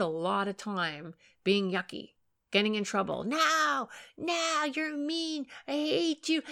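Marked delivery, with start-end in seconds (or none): 3.2-6.4 put-on higher, slow whiny kid; defiant child. Acting-out child rejecting a parent, higher and whiny. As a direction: pout it like a cross kid. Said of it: "They do a lot of that".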